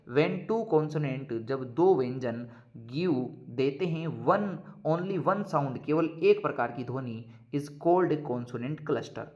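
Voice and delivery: very slow, word by word, for students to write down; slow dictation. Shown as a demonstration. Teacher dictating a definition to students, slow and deliberate. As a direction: dictate it so the class can copy.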